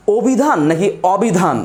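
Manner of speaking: slow, careful অভিধান set against অবিধান; slow contrast of অভিধান and অবিধান; spoken version against written version. Shown as a demonstration. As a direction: say অভিধান and অবিধান slowly to show the two forms. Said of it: "উচ্চারণটা আমরা ঠিকই অভিধান বলি".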